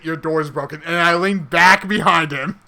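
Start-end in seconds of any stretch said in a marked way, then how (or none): 0.0-0.8 softer flat aside; quiet deadpan. Retold or imitated. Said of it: "I point out the door and say".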